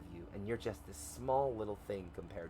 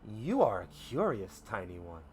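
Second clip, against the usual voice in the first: vast ancient creature, lightly voiced; measured, resonant giant creature voice; deep, full beast voice; 3 dB louder than usual. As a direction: speak as a mountainous beast to someone tiny. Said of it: "full and loud, and it just says".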